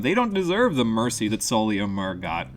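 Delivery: loud, indignant character rant; angry rant. Acted. A prisoner ranting at the scribes, loud and indignant. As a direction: let the outrage boil up over the scribes.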